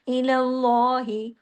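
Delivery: slow इलल्लाहि with a thick, rounded, held laa; heavy Allah lam. Shown as a demonstration. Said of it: "लाम जलाला होगा". (इलल्लाहि में मोटा लाम जलाला)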